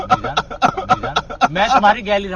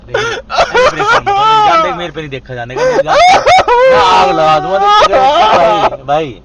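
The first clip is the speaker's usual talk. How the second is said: friend's urgent higher comfort; 10 semitones higher than usual. Real, not acted. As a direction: pull him out of despair. Friend comforts crying man.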